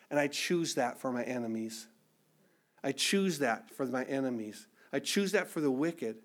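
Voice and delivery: soft, low and sincere; quiet sincere resolve. Real, not acted. Preacher choosing mercy for his enemies, quietly sincere.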